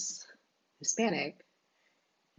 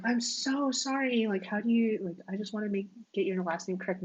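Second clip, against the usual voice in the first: mock an over-sorry stranger; exaggerated apologetic quote; 4 semitones higher than usual. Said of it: "So when people are like".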